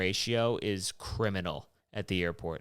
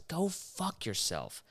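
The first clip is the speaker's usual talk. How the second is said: indignant rant; 11 semitones higher than usual. Real, not acted. Ranting about six-dollar airport water.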